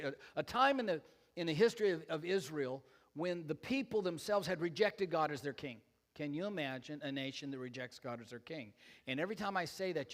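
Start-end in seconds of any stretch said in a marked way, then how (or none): 6.1-8.7 understated sarcastic question, lower and softer; dry sarcasm. Real, not acted. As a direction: slip the sarcasm in quietly. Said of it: "you don't get the sarcasm in that".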